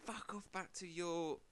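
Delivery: put-on slow, slurred drunk abuse; drunk racist man. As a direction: drawl it like a drunk bum. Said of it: "he starts being really racist".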